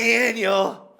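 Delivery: high excited call of a name. Real, not acted. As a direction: shout his name to get attention. Calling out co-host's name.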